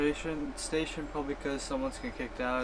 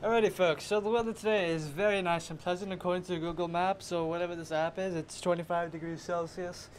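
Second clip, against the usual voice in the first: cheesy weatherman. Pretend. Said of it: "should I do the thing or, like, leave that cheese?".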